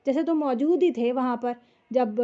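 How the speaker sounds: mild demonstration of doubting someone's claim; lightly pointed rhetorical tone; rhetorical questioning. Shown as a demonstration. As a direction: stress موجود ہی as if questioning that they were there. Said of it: "کسی کو اس طرح سے بولتے ہیں نا".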